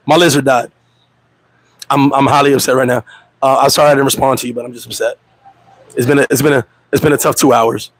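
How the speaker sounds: low, droopy mock mourning; fake grief. Fake grieving text excuse.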